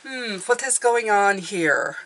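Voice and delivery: lightly voiced, slow detective musing; a hint of bumbling-inspector accent, drawn out; Inspector Clouseau. Reader attempts the inspector's accent for viewers, lightly mock-detective. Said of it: "A little bit Inspector Clouseau".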